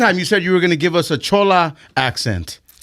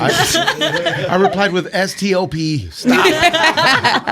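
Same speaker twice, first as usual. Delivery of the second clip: laughing; much slower than usual. Real, not acted. Laughing while retelling reply.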